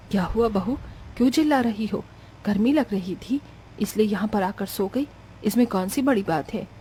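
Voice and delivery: puzzled mother-in-law. Acted. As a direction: answer the outburst mildly, explaining yourself. (हल्के स्वर में सफ़ाई देती सास)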